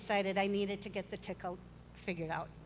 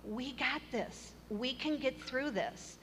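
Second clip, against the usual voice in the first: reassuring; 2 semitones higher, 4 dB quieter, slower than usual. Retold or imitated. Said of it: "he kept saying".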